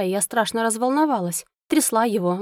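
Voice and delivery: ordinary delivery, nothing marked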